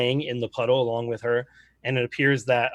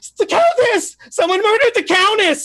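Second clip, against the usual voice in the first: very shrill, very loud, frantic, panicked scream; 10 dB louder than usual. Voicing a sailor who finds the murdered countess: screaming in panic. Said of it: "And she's just screaming".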